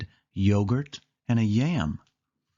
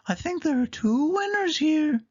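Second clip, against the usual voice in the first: whispered, much higher; Daisy whisper. Acted. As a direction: hush it like a secret. Daisy announces, crowd goes quiet.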